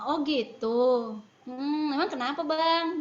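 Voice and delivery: slow, drawn-out acknowledgement, then a gentle question; empathic listening. Shown as a demonstration. Mother answering son who refuses boarding school, empathic. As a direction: model a parent patiently hearing the child out. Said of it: "mendengar empatik".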